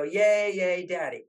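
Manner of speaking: put-on cheering kids. Kids cheering their father for the milk, excited. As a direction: cheer for daddy like a child.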